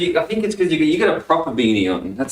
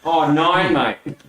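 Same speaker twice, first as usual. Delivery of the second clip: put-on bogan Australian accent; much slower than usual. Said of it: "In the most bogan accent possible".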